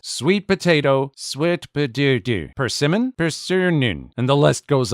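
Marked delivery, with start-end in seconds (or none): 1.1-2.5 "sweet potato" slow, with "potato" said like "potudu"; imitating her "sweet potato" as "swit potudu"; Chinese accent. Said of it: "her pronunciation of English words". 3.2-4.1 "persimmon" said like "persunnun"; imitating her "persimmon" with muddled middle; Chinese accent. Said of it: "her pronunciation of English words".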